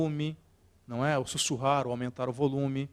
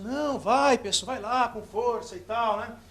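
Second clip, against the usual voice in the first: much higher, egging him on, a bit drawn out; crowd urging on; 7 semitones higher than usual. Retold or imitated. Audience urging the nervous speaker to continue, high mock cheering. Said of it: "Aí o pessoal".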